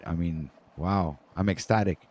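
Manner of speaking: flat, mock-ecstatic deadpan; deadpan sarcasm. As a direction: say ecstatic with no joy at all. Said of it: "You see my face?".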